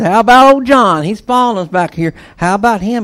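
high, loud, quick pointing question; eager question. Acted. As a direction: point back and ask eagerly. Peter points back at John.

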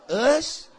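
"us" shouted high and loud; punched us. Shown as a demonstration. Preacher correcting the congregation, punching us. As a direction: hit "us" hard. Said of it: "Then he got".

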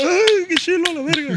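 high excited silly voice; mock gushing. Band members as clueless seals, high silly gushing. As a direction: gush like a dumb seal.

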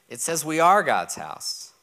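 slow, deliberate, each word weighted; slow emphatic. Shown as a demonstration. Preacher correcting a misreading for the church, slow and firm. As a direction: set it down slowly so it lands. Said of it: "It does not say".

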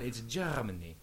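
imitating a German accent with rolled R's; mock German accent. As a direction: roll the R in a put-on German accent. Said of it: "they rolled their R's like that".

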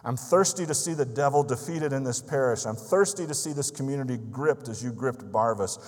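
a man praying aloud for revival, loud and longing; fervent loud prayer. Retold or imitated. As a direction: pour out your thirst to God loudly. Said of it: "he went on to say".

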